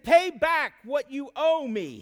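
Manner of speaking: stern demand. A narrator's reading. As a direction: bark out the demand, slowly, like a creditor choking a debtor. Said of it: "he demanded".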